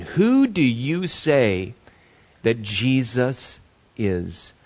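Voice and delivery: a slow, searching question to the congregation. Real, not acted. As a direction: draw the question out and let it fade. Repeats the key question.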